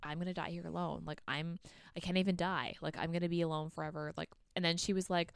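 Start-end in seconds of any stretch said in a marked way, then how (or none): 0.0-4.1 mildly glum retold lament; really sad. Woman left alone in the woods, mildly sad. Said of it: "she's, like, really sad".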